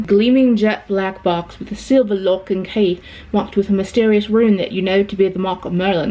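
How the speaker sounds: reading aloud in a put-on British accent; measured, lightly assumed British accent. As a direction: read the quiz like a British storyteller. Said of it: "I don't know why I'm doing an accent".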